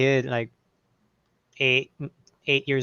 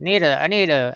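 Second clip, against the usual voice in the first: put-on slurring old Southern men; 2 semitones higher than usual. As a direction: run it together like an old Southern man. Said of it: "those are the old men out there".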